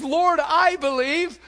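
high, loud, slow pleading cry; crying out with tears. Acted. Father of the sick child crying out to Jesus. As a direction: cry it out, tearful and desperate. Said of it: "cries out and says with tears".

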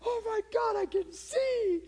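high, stunned cry of joy; amazed shriek. Retold or imitated. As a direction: squeal it like she just got her sight. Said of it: "And she's going".

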